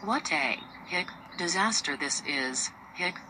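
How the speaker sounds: talking through hiccups; hiccuping between words. Acted. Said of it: "Now Baby and William both have them".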